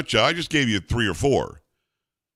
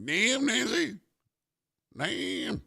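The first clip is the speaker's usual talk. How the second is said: impressed; 9 semitones higher, 9 dB quieter, much slower than usual. Real, not acted. Impressed reaction to clip.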